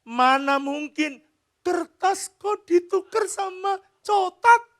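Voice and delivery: put-on slow high childish disbelief; little daughter's voice. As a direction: protest in disbelief like a small child. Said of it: "Anak saya bilang gini".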